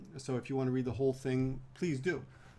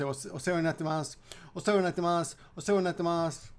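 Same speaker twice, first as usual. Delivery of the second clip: phone greeting; 3 semitones higher, faster than usual. Retold or imitated. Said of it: "People actually will answer the phone and say".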